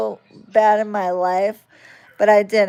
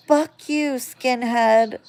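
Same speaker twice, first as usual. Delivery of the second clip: put-on kid's taunt; 4 semitones higher, slower than usual. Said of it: "He'd be like".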